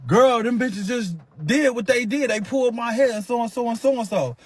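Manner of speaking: a hint of a shaken friend reporting; imitating Kari. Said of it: "Bitch looking like".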